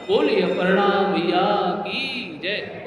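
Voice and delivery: slow, drawn-out call to the congregation; stretched-out jai call, rising at the end; devotional cheer. Real, not acted. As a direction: lead the crowd in a victory chant.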